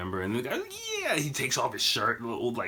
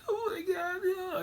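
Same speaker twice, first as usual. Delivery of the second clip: high-pitched imitation wailing; mock crying; 3 dB quieter than usual. Drunk grandfather hitting his peak, mock crying. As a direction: imitate a drunk man bursting into tears. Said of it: "then he starts crying".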